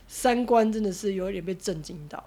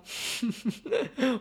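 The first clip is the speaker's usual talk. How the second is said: fake sob; 3 semitones higher, 6 dB quieter than usual. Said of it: "我假哭给你看".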